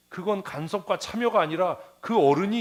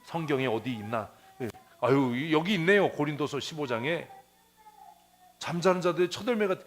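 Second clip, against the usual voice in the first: flustered believer. Retold or imitated. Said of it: "내 얘기를 해야지".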